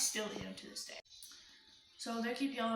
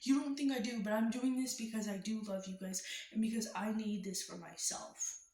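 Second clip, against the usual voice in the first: yelling back. Retold or imitated. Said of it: "I'm, like, yelling back".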